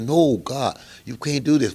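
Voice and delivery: loud, high, mock-alarmed objection; alarmed protest.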